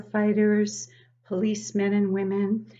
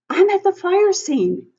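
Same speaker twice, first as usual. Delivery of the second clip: higher, louder chief on the radio; fire chief; 11 semitones higher, 11 dB louder than usual. Acted. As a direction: report it like a busy chief. Fire chief speaking in story.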